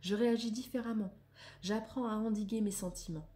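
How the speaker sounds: declaimed reading, phrase by phrase; measured read-aloud. Acted. Reading affirmations on anger to listeners, measured declamation. Reads card text aloud.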